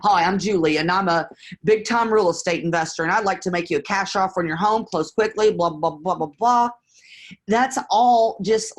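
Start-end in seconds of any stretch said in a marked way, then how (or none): 0.0-6.7 rattled-off scripted investor spiel, fast in places; mock the canned big-time investor line; hammed-up slick sales script, trailing into blah blah; mock salesy pitch. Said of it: "you're wanting to sound like".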